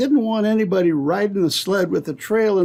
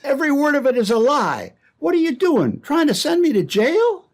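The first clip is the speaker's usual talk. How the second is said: pitched-up, urgent accusation; outraged demand; 5 semitones higher than usual. Acted. Randy confronting Pierre, outraged and higher. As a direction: push back in outrage.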